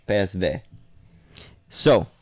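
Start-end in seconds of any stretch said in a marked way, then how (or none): 0.1-0.6 "P S V" repeated with Dutch letter names; Dutch pronunciation. Shown as a demonstration. Showing his co-host, "P S V" in Dutch letter names. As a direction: give "P S V" again the Dutch way. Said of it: "that's how you pronounce it in Dutch".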